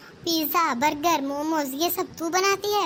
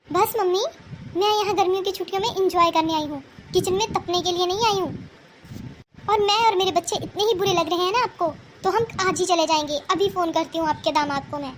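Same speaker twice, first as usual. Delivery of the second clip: indignant outburst. Acted. Daughter snaps back at mother.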